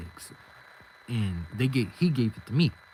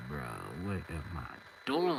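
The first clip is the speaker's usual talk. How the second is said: low self-reproach; 9 semitones lower, 9 dB quieter than usual. Retold or imitated. Worried thought to himself, retold.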